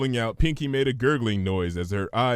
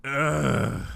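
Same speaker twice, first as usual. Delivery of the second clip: exasperated ugh; 3 semitones higher than usual. Acted. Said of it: "forced out a sigh".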